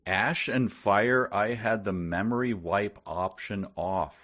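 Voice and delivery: slow, loud nasal character reading. Acted. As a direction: read it like a whiny nasal figure. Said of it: "replied the nasal voice".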